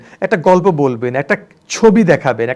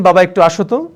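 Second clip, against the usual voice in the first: fond call to son. Shown as a demonstration. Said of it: "নিজের ছেলেকে বলছেন".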